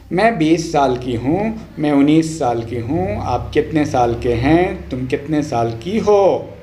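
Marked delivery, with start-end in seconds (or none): none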